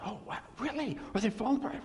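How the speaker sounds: mock surprise. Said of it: "And just".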